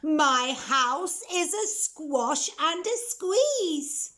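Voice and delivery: put-on high, wailing old lady voice; fretful old lady lament; crying old lady. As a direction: wail about the cramped house, high. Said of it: "the little old lady cried".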